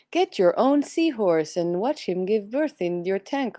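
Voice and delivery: light salesy pitch, lightly done; infomercial voice. Retold or imitated. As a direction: read it like a TV ad. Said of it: "sounded like an infomercial".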